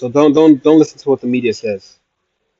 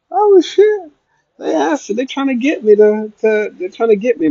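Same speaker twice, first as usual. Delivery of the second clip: high mock panic; 11 semitones higher than usual. Stays high after falsetto gag.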